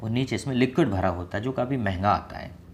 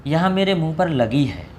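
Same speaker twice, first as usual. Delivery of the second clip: hurt complaint; 6 semitones higher, 6 dB louder than usual. Acted. Acts a hurt person's complaint.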